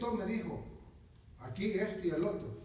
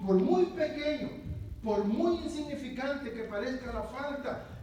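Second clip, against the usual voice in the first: emphatic preaching; 4 semitones higher, 3 dB louder than usual. Real, not acted. Preacher stresses point.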